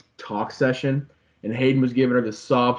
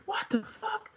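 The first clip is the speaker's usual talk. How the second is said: mock disbelief; 11 dB quieter than usual. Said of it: "everyone's like".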